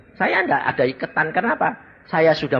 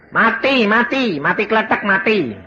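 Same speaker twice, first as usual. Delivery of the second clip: alarmed cries; 8 semitones higher, 3 dB louder than usual. Retold or imitated. People crying out he has died.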